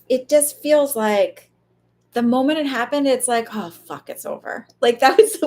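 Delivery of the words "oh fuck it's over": a soft, half-whispered "oh fuck" as it sinks in; hushed dread. Retold or imitated. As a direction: breathe it out quietly, like realising it's over. Medium retelling a spirit's death moment.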